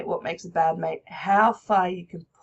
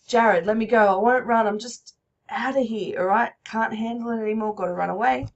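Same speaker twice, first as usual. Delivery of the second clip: agitated; 5 dB louder than usual. Acted. Teacher voices Jared fleeing.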